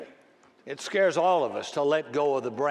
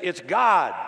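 voice of God; 3 semitones higher, 6 dB louder than usual. Acted. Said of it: "The voice said".

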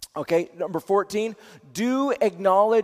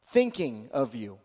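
tender text message; 8 semitones lower, 6 dB quieter than usual. Shown as a demonstration. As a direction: lower and softer, gentle. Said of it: "three words".

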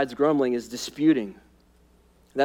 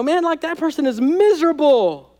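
dismissive outsider; 9 semitones higher than usual. Retold or imitated. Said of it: "and they go".

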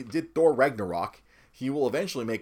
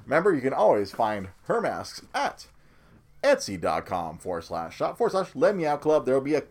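muffled through a full face mask; talking from inside a helmet; behind welding mask; 2 semitones higher, 3 dB louder than usual. Real, not acted. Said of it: "Trying to do the show with the mask on".

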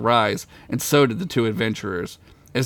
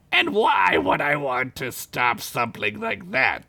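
spider lady voice. Acted.

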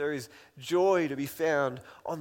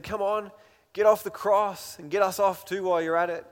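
mocking; 3 semitones higher, 5 dB louder than usual. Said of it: "just mocked Jesus".

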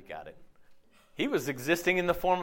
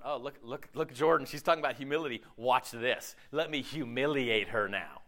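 circus performer God; 8 semitones lower, 4 dB quieter than usual. Pretend. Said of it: "like this circus performer".

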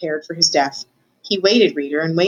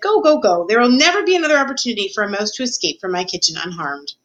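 urgent story Cook; 3 semitones higher than usual. Acted. Cook urges the mouse to go.

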